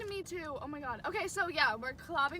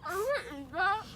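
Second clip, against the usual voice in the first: laughing; 6 semitones higher, slower than usual. Real, not acted. Laughing after spitting food.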